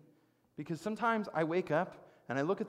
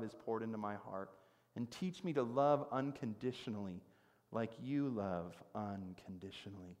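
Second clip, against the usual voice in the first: prayer. Acted. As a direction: hand the worries over to God, easing down. Turns to the Lord in prayer.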